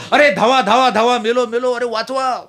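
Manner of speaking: loud panicked cry of run, I'm dying; yelling for help. Acted. Priest stuck in cow's horns yells loudly for help. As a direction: scream for rescue with head stuck in horns. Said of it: "लागले ओरडायला मोठ्यांदा".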